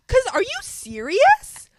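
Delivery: loud, slow, high disbelief; exasperated outburst, drawn out; indignant shout at the store; outraged. Real, not acted. Outraged at line setup.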